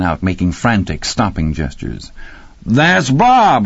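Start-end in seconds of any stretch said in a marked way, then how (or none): 2.7-3.7 high, loud cry of delight; jubilant, high-pitched shout; exultant yell. A narrator's reading. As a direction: yell it out in triumph. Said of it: "Rocky yelled exultantly".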